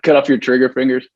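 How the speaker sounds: mock frantic parent. Parents' fear joked.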